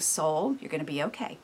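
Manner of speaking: quiet your own soul gently; calming self-talk. Retold or imitated. Speaking softly to her own soul, reassuring. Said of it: "you're saying".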